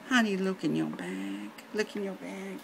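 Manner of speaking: put-on soft German-accented nurse. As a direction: coax gently in a mock German accent. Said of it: "Helga has a really heavy German accent".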